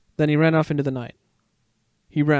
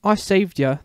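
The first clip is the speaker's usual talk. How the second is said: proud; 5 semitones higher, 3 dB louder, slower than usual. Acted. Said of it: "the meerkat said proudly".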